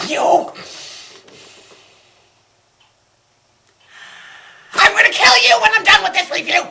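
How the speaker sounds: high furious yell of murder threats; furious shout. Acted. Fanfic critic screaming threats at her viewers. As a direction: scream it, barely holding rage in.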